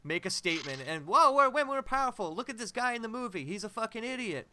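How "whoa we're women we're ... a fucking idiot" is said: mock feminist voice. Mocking women in the film.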